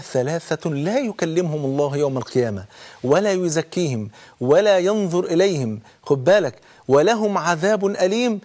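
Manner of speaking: slow, weighty quoting of the hadith; hadith recitation. Acted. Preacher quoting the Prophet's warning to the congregation, slow. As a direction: lay out the warning word by word.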